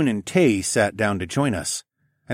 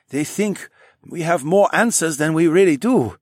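put-on higher, lightly accented man; Sun He voice; 8 semitones higher, 4 dB louder than usual. A narrator's reading. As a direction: give him a polite, formal lilt. Sun He character voice.

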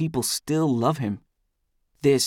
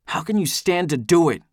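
higher, indignant raised voice; shout; 6 semitones higher, 4 dB louder than usual. A narrator's reading. Narrator's character confronting Eldest, shouting. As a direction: shout it as an accusation. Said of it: "I shout".

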